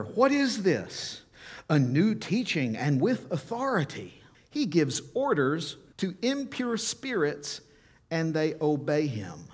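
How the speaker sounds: astonished voices asking each other; amazed crowd. Retold or imitated. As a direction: gasp it out in wonder.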